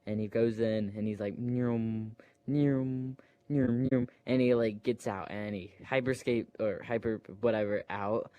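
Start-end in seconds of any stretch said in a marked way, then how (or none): 1.4-4.1 imitated ship zooming. Imitating the flying ship's noise.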